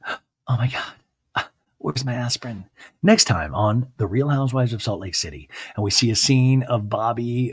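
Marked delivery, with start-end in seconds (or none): 0.1-2.6 hammed-up stunned mother; mock dramatic mom. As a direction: mom left alone after her daughter walks out. Mom left alone, dramatic.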